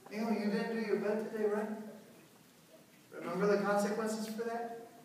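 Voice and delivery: no arguing, just a gentle nudge; calm reminder. Shown as a demonstration. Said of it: "You don't have to discuss".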